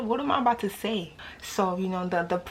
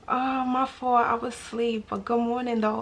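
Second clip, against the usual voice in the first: sweet apology text voice; 3 semitones higher than usual. Retold or imitated. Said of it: "Sisters, you know when we be like".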